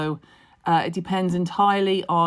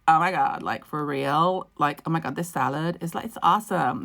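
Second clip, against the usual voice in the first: put-on Valley Girl accent. Imitating girls who surrounded Ben, Valley Girl accent. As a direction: parody Valley Girl speak, stretching the vowels. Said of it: "he didn't get the Valley Girl thing".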